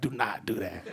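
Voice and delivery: quiet, laughing warning to himself; laughing self-warning. Retold or imitated. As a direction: hold back a chuckle as you stop yourself. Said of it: "but I was like".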